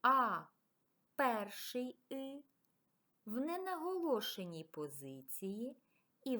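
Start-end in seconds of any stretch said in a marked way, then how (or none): none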